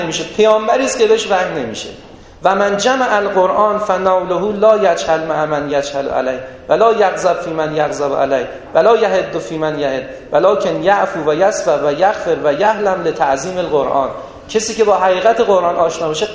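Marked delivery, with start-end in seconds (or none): 2.4-14.1 slow, measured Arabic recitation; measured scriptural chanting; hadith recitation. Acted. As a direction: intone the Arabic text deliberately.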